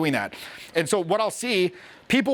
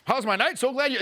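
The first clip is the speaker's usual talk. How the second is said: mock eager reply; 5 semitones higher than usual. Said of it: "expecting the person to be like".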